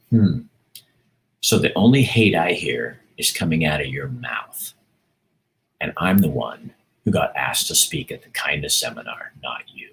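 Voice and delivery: measured, deliberate retort with pauses; calm and careful. Retold or imitated. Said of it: "calmly and carefully".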